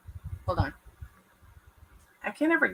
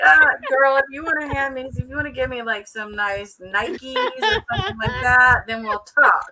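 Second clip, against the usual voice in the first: sassy bargaining; 3 semitones higher, 6 dB louder than usual. Retold or imitated. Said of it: "She's like".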